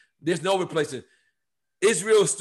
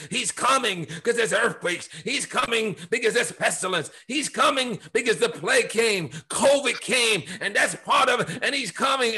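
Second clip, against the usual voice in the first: repetitive mock doom preaching, pitched up; imitating alarmist preachers; 4 semitones higher than usual. Pastor showing how people preach the second coming, higher mock preaching. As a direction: pile up the warnings like an end-times preacher. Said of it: "I've heard literally people preach like this".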